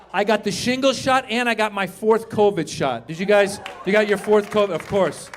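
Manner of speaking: ordinary talk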